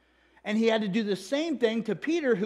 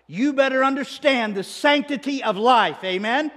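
loud, higher exhortation to the room; preaching loudly; 4 semitones higher, 7 dB louder than usual. Real, not acted. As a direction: drive it home to the congregation.

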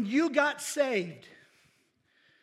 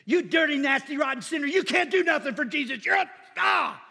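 loud, higher hammed-up tirade against a sinner; mock condemning rant; 5 semitones higher, 6 dB louder than usual. A preacher mock-berating a sinner, loud hammed-up condemnation. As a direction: rail at him like a scolding zealot.

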